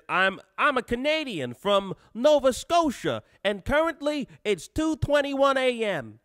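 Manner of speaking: hammed-up mock Canadian accent, pitched high. Streamer reading a viewer's chat message aloud, butchered Canadian accent. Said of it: "I assume that's how Canadians talk like".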